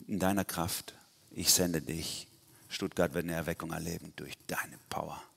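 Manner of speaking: hushed, low-key word from God; softly voiced divine promise; quiet commissioning. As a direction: send them out softly, as God speaking. God's imagined commission to listener.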